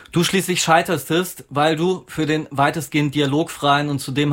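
measured reading of a literary text. Acted. Author reads an essay on Ackermann's film to listeners, literary reading. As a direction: read it out evenly, with deliberate pauses.

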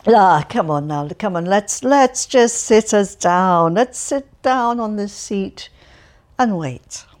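put-on loud, chatty, cheerful old man voice; cheerful Alferov. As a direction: prattle on brightly to a stranger. Alferov coaxing Ganin.

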